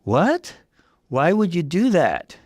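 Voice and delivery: high, loud stunned "What?"; shocked. Acted. Jess hearing the confession, shocked. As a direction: gasp the question in disbelief. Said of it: "I stared at her in shock".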